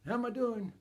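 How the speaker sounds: insistent father calling from the yard; dad calling out. Retold or imitated. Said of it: "Dad's outside saying".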